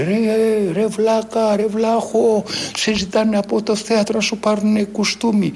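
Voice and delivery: high, loud yelling voice; retold shouting. Kiosk man yelling to the young actor on the phone, loud shout. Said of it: "άρχισε να φωνάζει".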